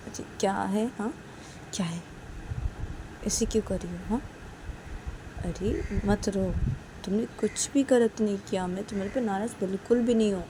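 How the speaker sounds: tender, coaxing comfort; reassuring Sanju. Acted. Sanju reassuring Uma she did nothing wrong, tender. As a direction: console with gentle insistence.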